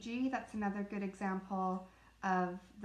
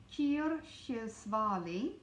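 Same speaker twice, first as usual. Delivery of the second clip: slow careful; slower than usual. Shown as a demonstration. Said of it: "That is a hard word".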